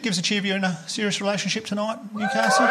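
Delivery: rally the audience for a cheer; calling out to crowd. Real, not acted.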